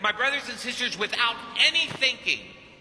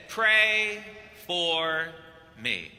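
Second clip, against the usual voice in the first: deep Argentinian voice; 2 semitones lower, much slower than usual. Retold or imitated. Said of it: "in that deep Argentinian voice in English".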